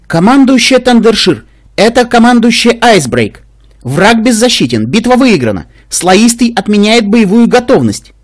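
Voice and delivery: high, slow, composed mare voice; calm dignity, measured pace; restrained and dignified. Acted. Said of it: "сдержанно и с достоинством". (сдержанно и с достоинством)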